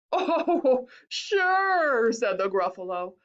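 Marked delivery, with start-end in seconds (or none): 0.1-2.1 amused, higher-pitched scoff; a touch of mocking amusement; mock laughter. A narrator's reading. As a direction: say it as if about to laugh. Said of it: "bursting with laughter".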